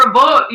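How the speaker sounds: "about" said like "a boat"; Canadian vowel. Retold or imitated. Co-host mimicking how a word was said, "about" like "a boat". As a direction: round the vowel in "about" to a long oh. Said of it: "You said, like, a boat, kind of".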